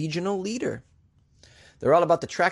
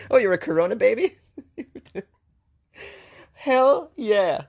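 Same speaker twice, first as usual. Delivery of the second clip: higher, louder cheerful whoop; hammed-up proud hell yeah; playful mock cheer; mock excited reply; 8 semitones higher, 5 dB louder than usual. Imagined exchange about Corona babies.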